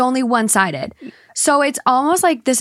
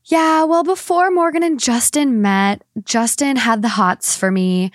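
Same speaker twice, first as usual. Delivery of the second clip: mock wedding speech; 4 semitones lower, slower than usual. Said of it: "it's not like you being like".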